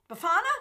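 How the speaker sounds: Befana with the middle A open and stressed, as "beh-FAH-na"; careful retry of Befana, stressing the FA; accent on the A. Shown as a demonstration. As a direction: lean on the FA of Befana, rising. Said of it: "the accent on the A".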